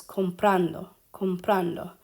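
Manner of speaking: "comprando" with the stress on PRAN; stress on second-to-last syllable. Shown as a demonstration. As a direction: lean on the middle syllable, comPRANdo, in "comprando". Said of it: "it doesn't change where the emphasis is".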